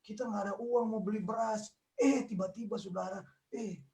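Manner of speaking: mock tearful testimony. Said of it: "kesaksian begini di gereja".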